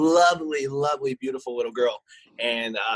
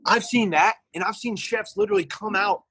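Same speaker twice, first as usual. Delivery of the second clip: higher-pitched, incredulous complaint; incredulous rant; 9 semitones higher than usual. Real, not acted. Manager complains of chefs who avoid making food, incredulous. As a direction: climb in pitch with disbelief.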